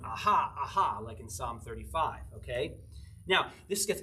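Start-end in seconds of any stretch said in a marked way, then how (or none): 0.0-1.0 kids' jeering aha, mildly acted; two punchy, taunting ahas; mocking aha. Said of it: "what they were mocking him with".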